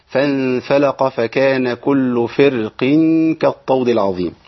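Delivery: slow, drawn-out chanted recitation; Quran recitation. Shown as a demonstration. Teacher recites the verse slowly to students.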